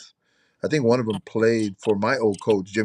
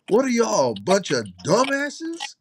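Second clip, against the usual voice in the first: put-on gruff old-school coach; 11 semitones higher, slower than usual. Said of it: "and he goes".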